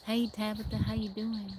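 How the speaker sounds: imitated Tennessee country greeting; country accent. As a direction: mimic a country accent, lightly. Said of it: "they sound more country".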